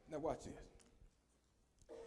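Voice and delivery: soft slow whisper; whispered aside. Real, not acted. Preacher hushing the congregation before a point, whispered. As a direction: draw them in with a hush.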